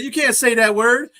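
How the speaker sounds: high, loud mock Portuguese accent, laughing through it. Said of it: "was talking in an accent".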